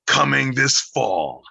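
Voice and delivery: slow, loud, booming trailer announcer; movie trailer voice. Pretend. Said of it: "your movie trailer voice".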